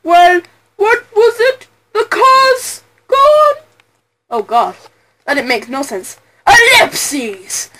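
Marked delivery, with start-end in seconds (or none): 0.0-3.6 put-on rising, higher pompous old lawyer; hammed-up Grossberg, climbing higher. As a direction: puff up like a genteel old attorney. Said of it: "I'm gonna put on my Grossberg voice".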